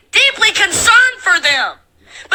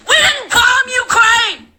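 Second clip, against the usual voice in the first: angry shout; 3 semitones higher than usual. Real, not acted. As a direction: slam each denial at the viewers.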